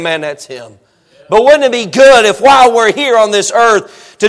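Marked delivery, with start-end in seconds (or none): 0.0-0.8 awed hush. Pretend. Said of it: "every now and then saying".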